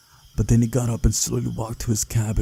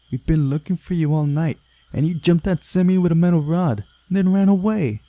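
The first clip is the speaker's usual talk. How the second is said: higher, louder, about to blow up; ready to explode; 7 semitones higher, 5 dB louder than usual. A narrator's reading. Girl scolds the sleepy caveman, ready to explode with anger. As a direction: scold him, barely holding the fury in. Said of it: "ready to explode".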